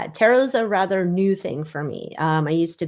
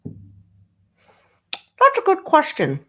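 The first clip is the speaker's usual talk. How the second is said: slow exaggerated musing; 9 semitones higher, 3 dB louder, much slower than usual. Drawn-out mock musing.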